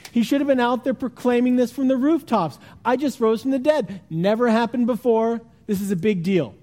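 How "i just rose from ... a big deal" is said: hammed-up boasting. Imagined Jesus bragging to Mary, hammed-up excitement. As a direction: crow about it like a hype man. Imagined publicist-style proclamation.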